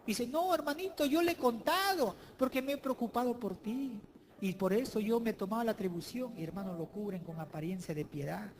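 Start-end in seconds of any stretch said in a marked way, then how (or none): 0.2-6.3 higher, earnest plea to a brother; a meddler excusing herself sweetly; pleading sibling voice. Acted. Preacher voicing the gossip explaining herself.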